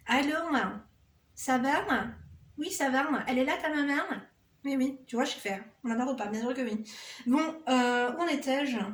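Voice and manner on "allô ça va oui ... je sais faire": a phone greeting with a light Kabyle accent; playful Kabyle accent; Kabyle accent demo. Shown as a demonstration. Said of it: "Moi, je sais faire l'accent kabyle".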